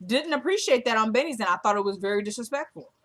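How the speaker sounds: loud, high indignant rant; indignant outburst. Real, not acted. A viewer fuming over a rude castmate, loud and indignant. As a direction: get worked up and let it rise.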